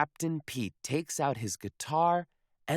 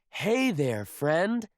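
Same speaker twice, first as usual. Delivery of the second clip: louder call across the water; friendly yell; 4 semitones higher, 3 dB louder than usual. Acted. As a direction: hail the sea monster. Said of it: "he yells to the sea monster".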